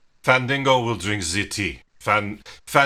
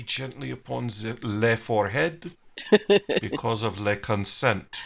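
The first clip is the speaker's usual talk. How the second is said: put-on French accent; 2 semitones lower than usual. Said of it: "In a French accent".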